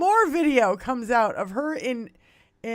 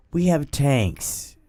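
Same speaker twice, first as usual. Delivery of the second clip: slow, much lower menacing voice; Keith Olbermann; 10 semitones lower, slower than usual. Retold or imitated. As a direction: drop low and slow, each line a threat. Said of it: "He's like".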